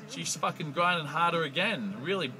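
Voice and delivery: climbing panic breaking into a yell; rising frantic build. Retold or imitated. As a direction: build to a near-shout of disbelief. Frantic climax of retold ordeal.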